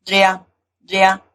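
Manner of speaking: "drea, drea" each as one fused syllable; merged vowels. Shown as a demonstration. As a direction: repeat "drea, drea" with e gliding straight into a. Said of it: "igual a unido".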